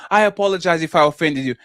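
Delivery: smug, taunting fake apology; mock them while saying sorry. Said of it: "That's the worst kind of apology".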